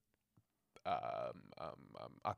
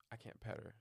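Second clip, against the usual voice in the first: mock whisper; 2 semitones higher, 7 dB quieter than usual. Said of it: "Adam says".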